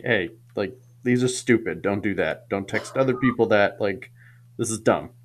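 low, soft mock talking-to; retold gentle explaining. Mother explains the chain texts to Katie, retold low and soft. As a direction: quote a parent quietly explaining, played down.

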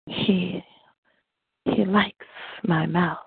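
erotic poem voice. Acted. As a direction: savor each line like a love poem. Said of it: "you got that erotic poem voice".

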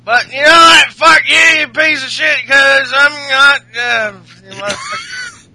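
high, shouted mock-Irish tirade; hammed-up angry Irish wrestler; Sheamus. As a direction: rant loudly, losing track of the insult. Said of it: "what was it Sheamus had to say?".

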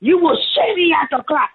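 high, loud imitated scolding; mock stern threat. Teacher punishing the little girl, loud high mock threat. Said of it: "he was so mad at her".

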